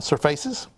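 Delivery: surfaces said "sur-FACE-iz", rising; mispronounced surfaces. Real, not acted. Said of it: "I think I tried to say surfactant".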